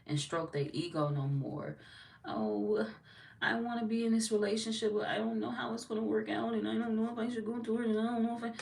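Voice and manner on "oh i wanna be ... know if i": higher, mock whiny friend voice; lightly mocking high whine. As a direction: mimic a dithering needy friend.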